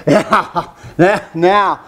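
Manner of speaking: chuckling through the quoted agreement; light mock crowd voice, laughing. Congregation imagined agreeing about Jim Jones, laughing. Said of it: "everybody would say, laugh".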